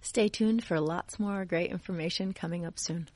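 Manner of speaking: radio sign-off in a Minnesotan American accent; American Minnesota accent. Shown as a demonstration. Guest teases the next segment for the host, American Minnesota accent. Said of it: "con el acento de americano de Minnesota".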